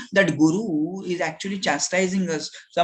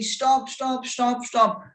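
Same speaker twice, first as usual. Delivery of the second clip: higher, urgent repeated call; 6 semitones higher, slower than usual. Acted. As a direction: call after someone running away. Acted lion calling after fleeing cub.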